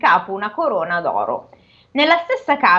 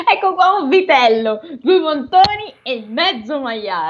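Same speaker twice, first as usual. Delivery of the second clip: ogre's wife voice, corrected take; 4 semitones higher than usual. Acted. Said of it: "scusate, ho sbagliato".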